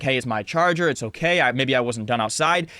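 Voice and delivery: even, reasonable retelling; calm explanation. Retold or imitated. Son calmly telling dad it's his charger, composed. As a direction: explain it without any heat. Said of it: "say what it is".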